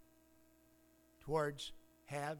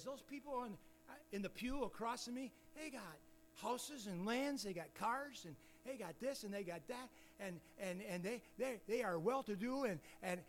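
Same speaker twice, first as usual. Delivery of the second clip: soft, higher, grudging list; a hushed, higher jealous complaint; envious muttering; 4 semitones higher, 5 dB quieter than usual. Acted. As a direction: grumble enviously under your breath. Voicing an envious churchgoer.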